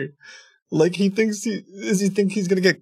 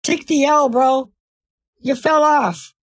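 loud taunt; 5 semitones higher, 4 dB louder than usual. Real, not acted. Taunting the caller loudly.

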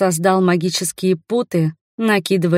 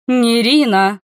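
higher, louder exclamation of the name; astonished; 5 semitones higher, 5 dB louder, slower than usual. A narrator's reading. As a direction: call her name in shock. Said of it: "удивлённо распахнула глаза она".

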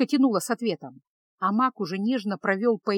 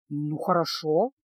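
smiling; 5 semitones lower, slower than usual. Acted. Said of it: "улыбнулся Кайл".

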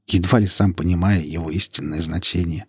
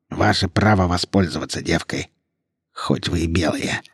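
softer, polite. A narrator's reading. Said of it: "Более мягко и учтиво продолжил мужчина".

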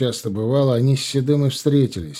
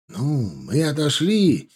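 guilty; 4 semitones higher, slower than usual. Acted. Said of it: "виновато проговорил крепкий".

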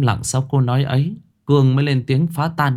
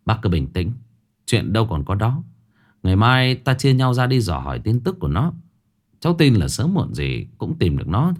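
reassuring. Acted. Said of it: "Thượng lên tiếng trấn an".

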